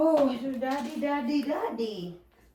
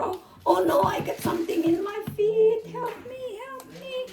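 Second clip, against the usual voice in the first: pretend distress; 8 semitones higher than usual. Pretend injury, calling for help.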